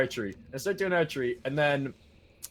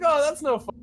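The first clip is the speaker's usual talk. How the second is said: camp counselor voice; 12 semitones higher, 5 dB louder than usual. Retold or imitated. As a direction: ham up a cheesy camp leader.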